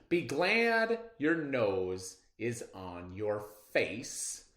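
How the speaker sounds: slow, deliberate stanza reading; unhurried read-aloud of a stanza; slow poem reading. Shown as a demonstration. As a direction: read it slowly so kids hear the rhymes. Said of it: "one of the stanzas from our poem".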